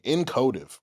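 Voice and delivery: incotive said slowly, every syllable clear; word of the week. Shown as a demonstration. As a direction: spell out incotive like a teacher. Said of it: "Say it with me".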